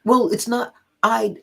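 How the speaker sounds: retold fluster, breaking off mid-thought. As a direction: stammer it out, caught off guard. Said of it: "the woman got flustered".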